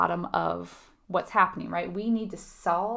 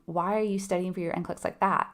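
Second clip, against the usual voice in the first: judgy. Shown as a demonstration. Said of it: "That feels judgy".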